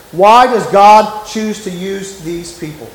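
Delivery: "Why does God choose", slowly, each word weighted; slow emphatic question. Real, not acted. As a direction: spread out "use these people" with deliberate stress.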